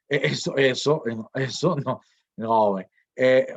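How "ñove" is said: ñove with a nasal velar start and an open O; brief ñove demo. Shown as a demonstration. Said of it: "con la nasal velar y con la O abierta".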